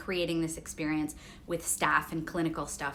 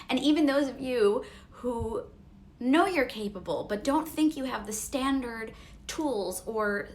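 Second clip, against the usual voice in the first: after crying; 4 semitones higher than usual. Real, not acted. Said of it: "Sorry, I am teary".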